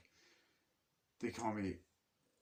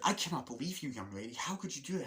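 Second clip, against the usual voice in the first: mock scolding; 5 semitones higher than usual. Acting out the scolding sister.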